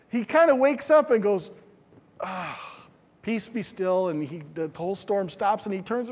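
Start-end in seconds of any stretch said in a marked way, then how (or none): 2.2-4.1 calm command. Acted. Jesus calming the storm.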